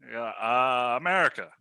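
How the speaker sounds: hint of halting presidential impression; Barack Obama. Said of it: "do Barack Obama".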